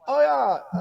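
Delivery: high, loud carefree Aussie-parent voice; laid-back parent. Retold or imitated. Mocking Australian parents who don't care, high and breezy. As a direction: toss it off like an easygoing parent. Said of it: "I'm not gonna do an accent either".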